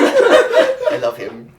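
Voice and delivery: squealing with laughter, high and loud; laughing. Real, not acted. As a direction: gush through giggles, slow. Player delighting in her character.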